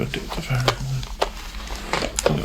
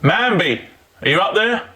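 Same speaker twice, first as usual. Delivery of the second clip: calling up to window; 5 semitones higher than usual. Real, not acted. Calling names up to upstairs.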